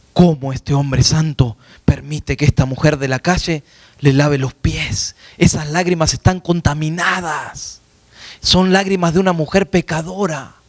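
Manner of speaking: slow, drawn-out disapproval; reproche fariseo. Acted. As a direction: voice the scandalized Pharisees, stretching the line endings. Pharisees disapprove of the woman. (reproche escandalizado, lento y arrastrado)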